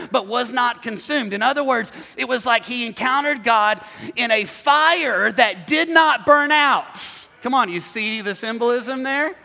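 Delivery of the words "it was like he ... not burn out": emphatic, drawn-out preacher delivery; preaching. Real, not acted. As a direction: build it louder and slower to the end. Preaches at full force.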